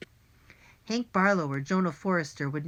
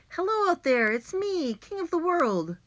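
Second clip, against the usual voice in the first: very high, sing-out proclamation; grand calling out; 12 semitones higher, 4 dB louder than usual. A narrator's reading. Boy alone on a roof deck, grand high call. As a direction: proclaim it to the whole world.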